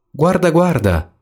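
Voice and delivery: put-on high and slow, a boy spotting something; excited exclamation. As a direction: call out in delight, drawing it out high. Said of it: "esclamò l'uno".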